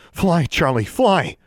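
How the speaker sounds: high, loud urgent command; urgent cry. A narrator's reading. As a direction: send the bird off with a shout. Urgent order to familiar amid attack.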